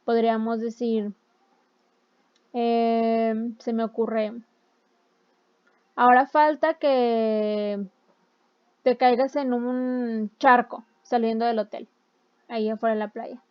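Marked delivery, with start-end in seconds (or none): 6.0-13.4 sarcastic. Shown as a demonstration. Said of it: "ya entraría el sarcasmo".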